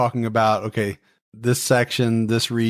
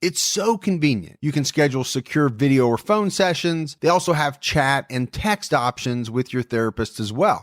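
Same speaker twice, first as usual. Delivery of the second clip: upbeat sponsor read; 2 semitones higher than usual. Acted. Host pitching BetterHelp to listeners in an ad read. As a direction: sell it like a podcast ad.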